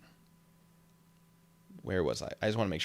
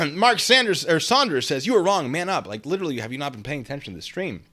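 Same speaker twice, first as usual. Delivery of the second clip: loud reading; 7 semitones higher, 9 dB louder than usual. Real, not acted.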